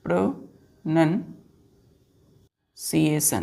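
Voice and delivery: प्रोनंसिएशन drawn out very slowly, each syllable apart; slow careful pronunciation. Shown as a demonstration. Teacher modelling the word for kids, very slow and deliberate. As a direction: spell out प्रोनंसिएशन slowly, "pro-nun-si-e-shan". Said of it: "प्रोनंसिएशन क्या पढ़ते हैं इसको बच्चों?".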